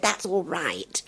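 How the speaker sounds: soft, slow hushed reply; hushed slow man's reply; hushed aside. Retold or imitated. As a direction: murmur it like a keen suitor. Suitor's reply in joke.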